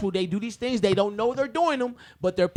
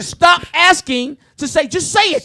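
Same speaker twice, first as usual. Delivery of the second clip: slow, loud yell clipping the mic; clipping distorted mic; 6 semitones higher, 8 dB louder, slower than usual. Real, not acted. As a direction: bellow into the mic until it distorts. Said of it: "Stop yelling into the mic".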